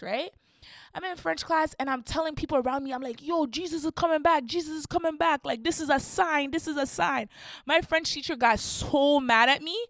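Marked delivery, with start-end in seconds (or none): 3.2-7.3 excited warning. Retold or imitated. Warning classmates in French class.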